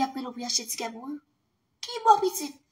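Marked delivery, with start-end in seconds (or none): 1.8-2.6 incredulous cry. Real, not acted. Scolding a Facebook user, high incredulous cry. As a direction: shoot the question up high in disbelief. Outraged rhetorical question.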